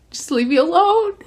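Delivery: high, strained, choked-up plea; teary plea. Retold or imitated. Girl crying over a book asks to be left alone, teary. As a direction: beg to be left alone through tears. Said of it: "I just started crying".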